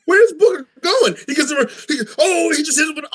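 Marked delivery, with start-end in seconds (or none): 0.1-1.2 very high, excited announcer wail; Booker T commentating. Retold or imitated. Commentator imitated wondering where he himself is going, high frantic call. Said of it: "when he was doing his commentating". 2.2-3.1 high-pitched play-by-play excitement; Booker T commentating. Retold or imitated. Friend mimicking a wrestler reacting to a hit, excited high commentary. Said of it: "when he was doing his commentating".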